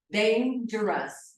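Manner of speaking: dangerous slowly broken as "dain-jrus"; split into syllables. Shown as a demonstration. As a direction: sound out dangerous slowly in two beats. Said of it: "dangerous são duas sílabas".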